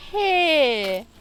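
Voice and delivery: loud high warning "Hey!"; shout. Real, not acted. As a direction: snap at the dog to stop. Dog at the food again.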